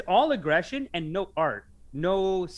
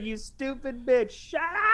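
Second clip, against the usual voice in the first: imitated yell; 7 semitones higher, slower than usual. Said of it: "he was like".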